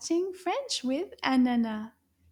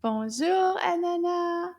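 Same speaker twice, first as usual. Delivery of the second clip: nice loud voice; 5 semitones higher than usual. Shown as a demonstration. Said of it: "Can you say that in a nice loud voice?".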